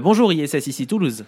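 lightly acted French mission control; a hint of a radio call to the space station; contrôleur au sol français. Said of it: "j'aurais dû dire". (contrôleur au sol, légèrement joué)

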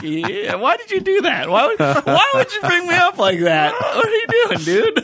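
high, laughing mock protest; embarrassed protest. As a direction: laugh and plead in a squeaky voice. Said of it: "And I'm like".

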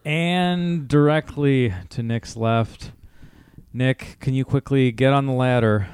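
booming showman intro; ringmaster. Acted. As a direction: announce the guest like a circus act.

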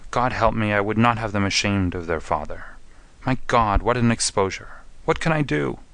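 acted anguish, pitch lifting at the end; groaning despair. Prisoner dreading exposure to his children, mildly anguished. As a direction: plead with a touch of despair. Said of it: "groaned the prisoner".

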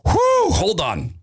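slow exhale, hold on; reining himself in. Real, not acted. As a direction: stop yourself with a slow whew. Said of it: "let me calm myself".

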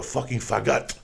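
put-on faggot in a Spanish accent, second syllable drawn out. Comic imitating a film actress for his friends, Spanish accent. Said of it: "she had a nice accent".

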